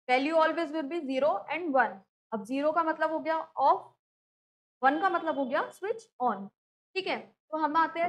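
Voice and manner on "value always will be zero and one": slow, word by word, stressing the rule; slow dictating teacher voice; slow emphasis. Shown as a demonstration. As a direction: spell out the rule slowly for students.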